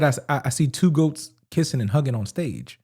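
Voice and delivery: low, soft quote of a lyric; quoting quietly. Real, not acted. Rapper's line quoted to co-host, quietly. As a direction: say it low and under your voice. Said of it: "A-, again".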